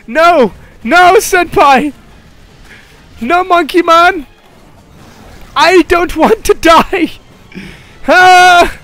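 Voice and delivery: high, slow mock wail; hammed-up begging. Gamer begging the monkey monster in a slow mock wail. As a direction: plead dramatically like a doomed anime victim.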